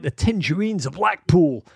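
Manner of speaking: lightly put-on American accent. Host names another team playing tonight, mock American accent. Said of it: "I don't know why I just said that in an American accent".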